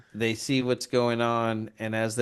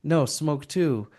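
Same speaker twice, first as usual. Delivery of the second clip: higher, slow, insistent mock command; pushy retold offer; 4 semitones higher than usual. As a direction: step through each order slowly, pitched up. Acting out Bertha pushing joints.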